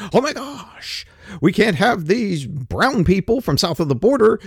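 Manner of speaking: exaggerated official worry; mock concern. Government fretting over the underbanked, in mock concern. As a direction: fret like an overconcerned official. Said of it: "they were very, very concerned".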